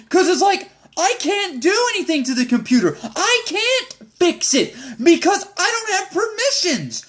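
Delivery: high, laughing disbelief; exasperated laughing. Real, not acted. Venting to viewers about his CO, laughing exasperation. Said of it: "exasperated laughing rant".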